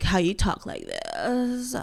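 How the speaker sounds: vocal fry with the word this drawn out. Showing how Meghan Markle talks: Meghan Markle vocal fry. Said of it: "she usually has a vocal fry".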